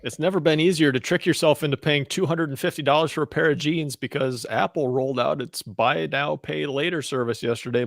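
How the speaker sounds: measured, lightly formal news delivery; news read. Acted. Co-host reading the week's tech news, lightly formal news read. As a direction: read out the story to co-hosts.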